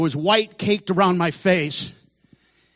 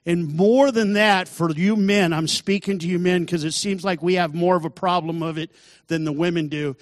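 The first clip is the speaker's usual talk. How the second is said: raised preaching voice to the men. Real, not acted. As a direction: call the men out from the pulpit.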